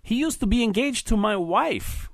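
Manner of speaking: put-on husband needling his wife's old fiancé, slurring drunkenly; drunken slur. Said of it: "said in a slurred accent".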